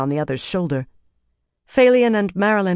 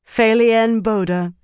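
calm, slow, raised pronouncement; name the accused calmly and deliberately; 6 semitones higher, 5 dB louder, slower than usual. A narrator's reading. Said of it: "Elaine said calmly".

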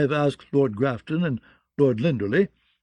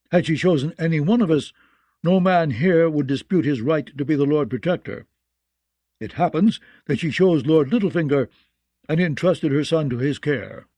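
put-on raised, firm voice of an old lord; speaking up loudly; 3 semitones higher, 3 dB louder than usual. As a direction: speak up so the whole room hears. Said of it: "now he spoke up loudly".

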